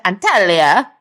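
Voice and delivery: lightly put-on Italian accent; generic Italian accent. Real, not acted. Holidaymaker naming the Turkish resort, in a generic Italian accent. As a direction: say the place name with an Italian lilt. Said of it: "a generic Italian accent".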